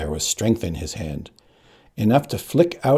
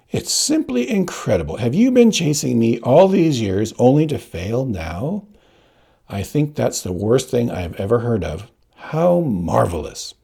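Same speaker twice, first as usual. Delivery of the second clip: mocking; 3 semitones higher than usual. Count mocks the failing Inigo.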